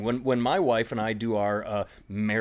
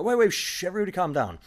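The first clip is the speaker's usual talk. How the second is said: mock hush, pitched much higher; a high quick shush to the audience; hushing the crowd; 7 semitones higher, faster than usual. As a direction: settle a laughing room, high and urgent. Comedian hushes laughing crowd.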